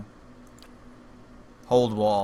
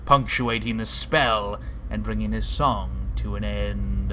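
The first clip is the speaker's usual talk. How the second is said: measured storyteller narration; story narration; 3 dB louder than usual. A narrator's reading. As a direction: read the scene like a game narrator. Game narration read aloud.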